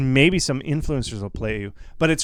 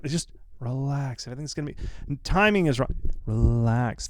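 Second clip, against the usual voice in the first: softer, slowed calming words; reassuring; 5 dB quieter than usual. Real, not acted. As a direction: settle their nerves gently. Calming fearful viewers again.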